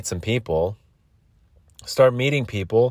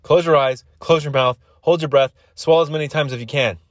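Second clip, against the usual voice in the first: insistent; 5 semitones higher than usual. Real, not acted. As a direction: drill the instructions. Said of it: "I'm telling you".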